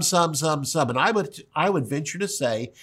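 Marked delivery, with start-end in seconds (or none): 0.0-0.9 "some" repeated, each one punched; hitting the word some. Shown as a demonstration. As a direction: tap out "some" like hammer blows. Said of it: "He kept hitting some".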